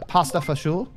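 "pasta fagioli" as pasta fah-ZHOOL; "fagioli" with an oo and no final i; grandmother's Italian-American pronunciation. Retold or imitated. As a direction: drop the ending of "fagioli": fa-zhool. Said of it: "she would say".

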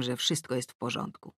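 ordinary delivery

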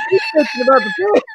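high, fast, shouting laugh and squeal; mock yell. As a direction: shriek it out in mock outrage. Mocking the complainer loudly.

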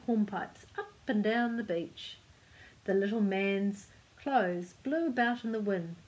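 measured picture-book reading; story narration. A narrator's reading. Reader telling children of the kite flight, story narration. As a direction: read the tale aloud to children.

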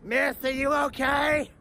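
slow, high, concerned lady's voice; nosy neighbour. Retold or imitated. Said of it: "The woman next to us decides to get involved".

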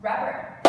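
Rubber, loud on the first syllable; stress on first syllable. Shown as a demonstration. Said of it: "you start at the first one".

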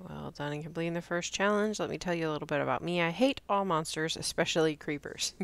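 flat robotic reading voice. Acted. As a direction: read it like a robot. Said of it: "Doing a little robotic there for me".

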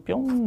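soft, high-lifted "pyong"; light cartoon zip to the next page; a small, drawn-out whoosh word; playful "pyong" sound effect. Shown as a demonstration.

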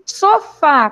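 "Sofá" drawn out with weight on FÁ; stress on last syllable. Shown as a demonstration. Teacher asks class for the tonic syllable, stressed "Sofá". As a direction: lean on the final syllable of "Sofá". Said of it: "Qual a sílaba tônica aí?".

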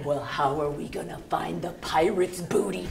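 hushed conspiratorial whisper. Acted. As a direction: whisper like hunting treasure. Treasure hunt scene, secretive.

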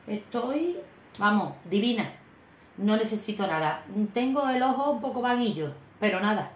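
smug bragging quote; mock smug boast. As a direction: play the show-off sister, lightly hammed. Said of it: "Ella dice".

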